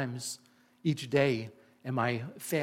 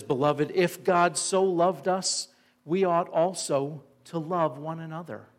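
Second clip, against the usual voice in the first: emphatic verse reading; 4 semitones higher, 5 dB louder than usual. Acted.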